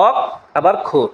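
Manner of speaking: অক and খোর given as separate pieces with a pause after অক; syllable break. Shown as a demonstration. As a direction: sound out অক, then খোর, one piece at a time. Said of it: "দুইবার ভাঙলা". (অক আর খোর আলাদা আলাদা উচ্চারণ)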